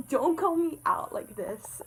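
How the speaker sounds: breathy, high laughing plea; don't call me out, giggled under the breath; laughing whisper. Real, not acted. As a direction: laugh it out, half whispered, embarrassed.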